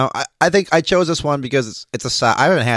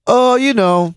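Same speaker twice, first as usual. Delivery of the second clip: high put-on voice, much louder; Johnny Bruja impression; 12 semitones higher, 5 dB louder, much slower than usual. Answering a question as Johnny, high and loud put-on voice. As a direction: toss it off like Johnny would. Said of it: "he'd be like".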